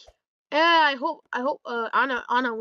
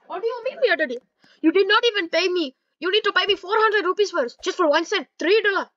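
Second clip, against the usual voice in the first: higher, louder indignant haggling; Mickey Mouse; 4 semitones higher, 4 dB louder than usual. Retold or imitated. Mickey demanding his four hundred rupees, mock indignation. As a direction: push back, raised and insistent. Acted quarrel with Mickey over money.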